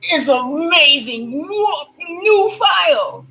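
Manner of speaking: high slow delighted squeal; excited squeal. Real, not acted. Excited squeal over file.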